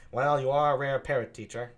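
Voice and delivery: Benedick's line, taken again; Benedick, lightly mocking; Benedick redone. Shown as a demonstration. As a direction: rework it as Benedick. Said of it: "I'll do it like that".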